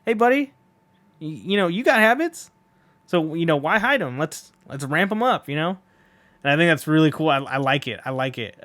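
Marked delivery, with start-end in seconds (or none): 0.0-5.8 lightly voiced easygoing Gyro; a hint of Gyro coaxing the horse; voicing Gyro. Gyro gently encouraging the horse about its habits, lightly voiced and easygoing. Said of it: "He was just like".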